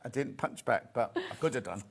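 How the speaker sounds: laughing. Real, not acted.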